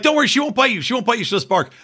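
imitating a parent calming a child; retold reassurance. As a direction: soothe a little kid, lightly acted.

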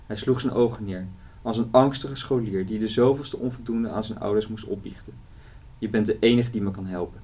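measured reading of a novel passage; story reading. Acted. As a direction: read it like a storyteller, steady and clear. Author reads novel passage aloud.

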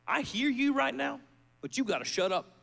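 rising from firm to shouting at the devil; a preacher rebuking the enemy, ending in a shout; telling off the devil. Retold or imitated. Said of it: "I just tell the enemy".

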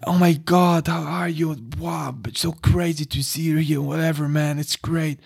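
effusive stoned American dude; high party guy. Retold or imitated. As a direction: imitate a stoned guy overjoyed to see you. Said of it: "he was high as fuck".

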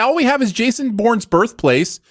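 high, hammed-up wail of loss; mock desperate plea. Clinging to their town's one claim to fame, mock wail. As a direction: overplay the loss for laughs.

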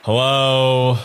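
troll calling out; loud troll hello from the bridge; lightly voiced troll.

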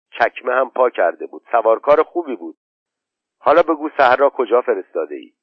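put-on a boy rattling on, then pressing; boy Khosrow. Khosrow tells his mother about Zinger, then demands an answer.

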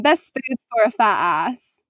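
light put-on British accent, unhurried. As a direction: ask it as a playful Brit. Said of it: "understand me over my accent".

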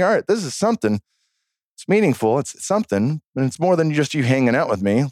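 dawning realization. Retold or imitated. Retelling his dawning realization, pitched up.

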